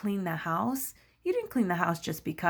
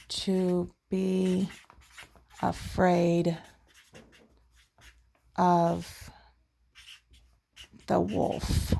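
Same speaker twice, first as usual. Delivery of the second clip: one word at a time, long gaps; slow dictation; much slower than usual. Real, not acted. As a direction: spell out the phrase slowly as you write. Writing the answer on the chart.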